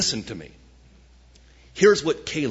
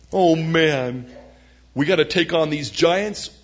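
lament; 4 semitones higher, 4 dB louder than usual. Acted. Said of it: "they said, sadly".

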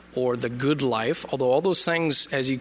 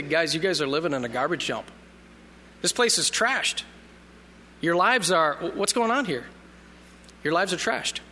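blunt paraphrase. Retold or imitated. Nehemiah telling the people their city is trashed, blunt. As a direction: tell them straight, no sugarcoating.

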